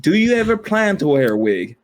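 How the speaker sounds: mock German accent question; lightly put-on German accent. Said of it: "a weird accent the whole time".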